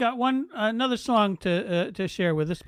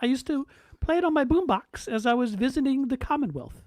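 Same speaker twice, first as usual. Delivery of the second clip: the Queen. Retold or imitated.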